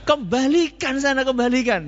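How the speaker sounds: a light echo of the high exasperated mother; translating the mother's words in her weary tone; mother's plea translated. Retold or imitated. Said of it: "Apa balik no?".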